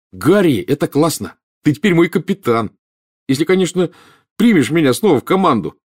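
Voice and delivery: put-on high, eager boy's voice; admiring excitement. A narrator's reading. Boy hopes to rejoin friend's team, excited. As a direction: gush over your friend's new post. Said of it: "восхищённо рассматривая капитанский значок".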